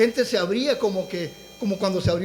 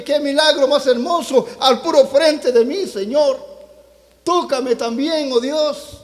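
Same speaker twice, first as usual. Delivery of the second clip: higher-pitched, fervent re-enacted plea; retold tearful prayer; 3 semitones higher than usual. Preacher relives begging God to touch him too, retold tearful plea. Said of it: "yo comencé a llorar".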